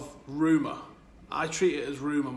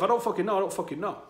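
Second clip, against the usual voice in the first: emphatic insistence; 5 semitones higher, faster than usual. Real, not acted. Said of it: "go hard on something".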